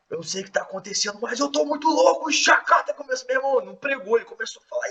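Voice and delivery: high, loud, rushing ecstatic cry; ecstatic pastor. Retold or imitated. Pastor grabbing the mic at communion, ecstatic high shout. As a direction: let it burst out like a preacher overtaken mid-sermon. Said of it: "Ele falou assim, meu irmão".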